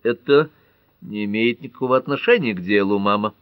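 sharp, irritated retort. Acted. Lola snaps at her mother, irritated. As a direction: brush her mother off, annoyed. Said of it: "раздражённо ответила Лола".

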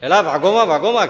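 loud mock cry to run; hammed-up shout of fleeing villagers; panicked call. Villagers yelling to each other to run, loud mock cry.

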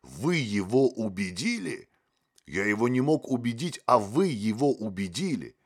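rising gloomy outrage. A narrator's reading. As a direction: stress the "вы" in bitter disbelief. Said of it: "угрюмо сказал Мотылёк".

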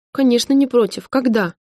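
put-on girl overjoyed at the chance to see her father; joyful shout. A narrator's reading. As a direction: burst out with delight. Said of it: "радостно крикнула Настя".

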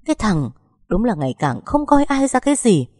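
mắng cao giọng; bực tức quát con trai; tức giận. Acted. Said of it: "đập bàn cái rầm". (mẹ chồng đập bàn mắng con trai)

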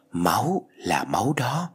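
slow, eerie whisper in the ear; ghostly whisper. Acted. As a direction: breathe it slowly like a ghost at her ear. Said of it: "giọng nói ghé sát vào tai". (giọng ma thì thầm chậm rãi bên tai)

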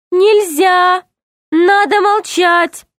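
high, barking little guard; stern guard. Acted. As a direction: shut them up like a jailer. Lemur guard forbids talking. (строгий окрик стражника)

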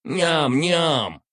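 tiny greedy creature voice; squeaky smirking spider. Acted. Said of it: "заявил штопор, ухмыляясь".

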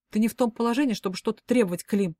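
лёгкая огрызающаяся резкость; огрызнуться, чуть громче; огрызнулась. Acted. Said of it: "огрызнулась я". (Полина слегка огрызается на Клима)

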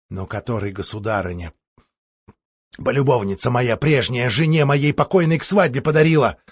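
plain reading voice

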